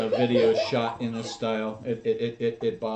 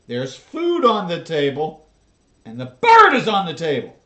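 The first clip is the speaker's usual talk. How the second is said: exasperated; 4 semitones higher, 9 dB louder than usual. Real, not acted. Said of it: "I'm triggered".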